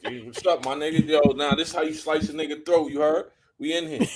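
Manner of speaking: mock New Yorker swagger, rising high at the end; Brooklyn accent. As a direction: imitate a cocky Brooklyn guy. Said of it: "talking like he was from Brooklyn".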